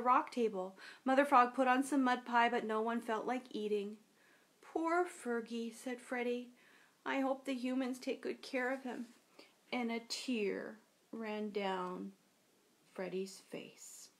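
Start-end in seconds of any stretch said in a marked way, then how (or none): 4.6-9.1 sad soft voice. Acted. Freddie mourns lost brother. 9.7-14.1 sad soft narration. A narrator's reading. Narrator's tender sad moment.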